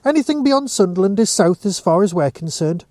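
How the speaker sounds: lightly voiced Geordie shop woman, half-joking; a hint of Geordie banter. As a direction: tease them gently in a Geordie lilt. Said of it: "half-joked the woman behind the counter".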